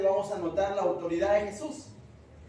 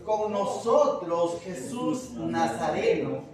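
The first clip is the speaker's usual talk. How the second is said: slow, drawn-out louder demon challenge; 6 dB louder, much slower than usual. Acted. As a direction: drag out the words like a cornered spirit. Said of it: "se manifiesta este espíritu inmundo dando voces".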